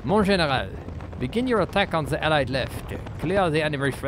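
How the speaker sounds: loud hammed-up French accent; mock French officer's accent; worst French accent. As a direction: read the orders in a deliberately bad French accent. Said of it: "I'm doing my worst French accent".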